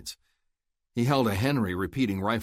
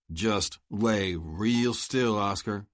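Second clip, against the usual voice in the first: steady voice; much slower than usual. Acted. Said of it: "he said in a steady voice".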